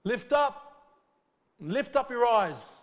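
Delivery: high, loud, slow exhortation; preacher urging the flock, loud and slow; fervent call. Real, not acted. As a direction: rouse the church to look up.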